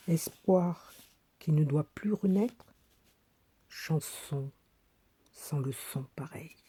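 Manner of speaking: spaced-out verse, each image left hanging; poem recitation. Acted. Woman reads her little thoughts as verse, paused recitation. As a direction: recite phrase by phrase, softening at the end.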